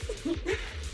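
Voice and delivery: soft, high villain chuckle; quiet gleeful titter; gloating chuckle. Acted. Villain gloats over gloves.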